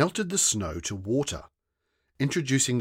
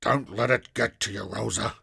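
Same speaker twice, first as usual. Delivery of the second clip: consoling. A narrator's reading. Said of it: "consoling arm".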